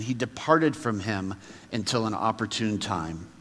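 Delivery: measured, solemn Bible reading; scripture reading. Real, not acted. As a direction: read the passage out to the congregation, phrase by phrase. Reads the scripture passage aloud.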